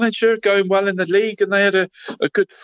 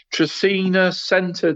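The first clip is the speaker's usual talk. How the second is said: drawn-out, slow catchphrase delivery; 3 semitones higher, slower than usual. Shown as a demonstration. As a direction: stretch "Tresina Centre" out slowly like a signature line. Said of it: "Are you gonna say that every week now?".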